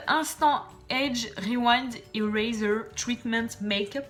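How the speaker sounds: reading an English product name slowly in a put-on English accent; hammed-up English accent, drawn out; self-mocking English accent. Shown as a demonstration. Naming a Maybelline product to her viewers, in a mock English accent. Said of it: "mon superbe accent anglais".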